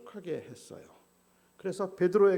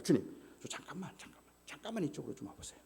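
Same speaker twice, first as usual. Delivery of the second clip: hushed aside; 6 dB quieter, faster than usual. Acted. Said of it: "옆으로 살짝 불러간 거죠".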